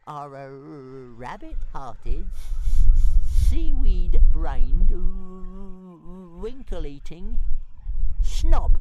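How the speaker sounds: high, stammering dragon insults; stuttering taunt. Acted. Toothless taunting Fireworm with stammered insults, high pitched.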